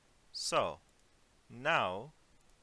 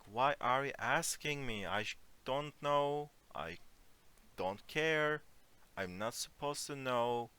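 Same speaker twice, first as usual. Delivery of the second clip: passive-aggressive annoyance; 3 semitones higher than usual. Shown as a demonstration. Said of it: "depending on the intonation, is more passive, aggressive".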